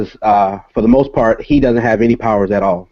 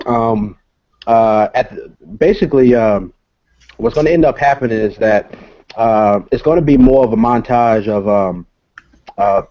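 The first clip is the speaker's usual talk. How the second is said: real hesitation, searching for safe wording; hesitant stalling. Real, not acted. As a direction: stumble along, pausing to avoid giving something away. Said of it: "that's why I'm stuttering".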